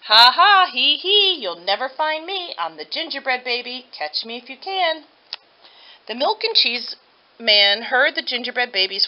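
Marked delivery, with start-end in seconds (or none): 0.0-5.1 loud high ha ha then a teasing dare; gleeful cackling taunt. Acted. Gingerbread baby hiding in the milk can, crowing gleefully. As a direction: laugh it out from the hiding place, triumphant. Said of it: "he sang at the top of his gingerbread voice".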